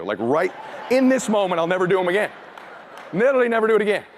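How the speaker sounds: mock-earnest bargaining with God; retold desperate prayer. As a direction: plead lightly, as if striking a deal with heaven. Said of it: "I immediately start praying".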